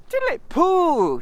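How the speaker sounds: loud, high call across the snow; shouted. Acted. Christopher Robin calling out to Pooh and Piglet, shouted. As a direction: call out to the singers. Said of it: "shouted Christopher Robin".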